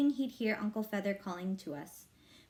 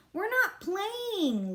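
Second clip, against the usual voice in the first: scream; 10 semitones higher, much slower than usual. A narrator's reading. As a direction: fling it back at the sitter. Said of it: "Libby screamed".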